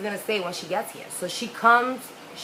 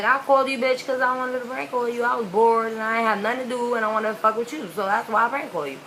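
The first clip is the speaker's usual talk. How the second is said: mock defiant retort; 4 semitones higher than usual. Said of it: "I called you in my head".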